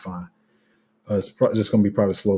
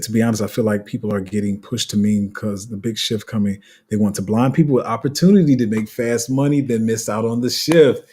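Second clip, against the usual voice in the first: quicker read with slurred words, rising in energy; hurried, mumbled read; 5 dB louder than usual. Real, not acted. Streamer reading a viewer's comment aloud, hurried and mumbled. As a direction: run the words together, pushing louder toward the end. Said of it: "'cause I kinda mumbled that".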